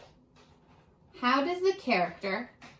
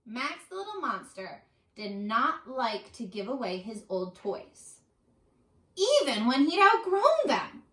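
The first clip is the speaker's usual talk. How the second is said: put-on reading to children. Teacher reading the monster story to her class. Reading picture book aloud.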